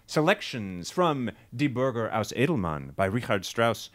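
smooth formal radio announcer; old radio announcer. Shown as a demonstration. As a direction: announce it like a 1940s radio host. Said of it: "You wanna hear me announce?".

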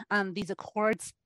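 hoarse, losing her voice; strained, fading voice. Real, not acted. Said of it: "I'm losing my voice".

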